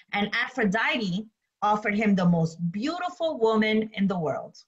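measured read-aloud with pauses between phrases; slow story reading. Real, not acted. Teacher reads myth while students draw notes, slow story reading. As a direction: read it slowly, leaving room for note-taking. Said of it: "I'm going to read the story slowly".

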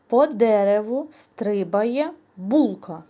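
«булка» in place of «білка», slow and loud; slow, loud trick sentence to fix; playful nonsense line; deliberate wrong word. Shown as a demonstration. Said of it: "Білка, звичайно ж".

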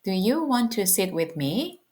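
slow, careful, clear English read; slow model sentence. Shown as a demonstration. Teacher modeling for students, slow and clear. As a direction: read it slowly for learners to copy. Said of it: "한번 들어보실게요".

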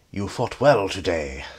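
put-on slow, measured Mister Han accent; imitating Han's accented English; put-on film villain accent. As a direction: do Han's accent, slowly and deliberately. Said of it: "I probably shouldn't do the accent".

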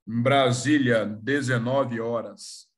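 slow, low radio announcer voice. Retold or imitated. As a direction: announce the hour like the national broadcast. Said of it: "Como é que fala?".

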